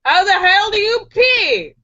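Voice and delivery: high, exasperated demand; hammed-up angry disbelief, pitched high; angry man. Angry man questions the leprechaun, exasperated. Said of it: "growls the angry man".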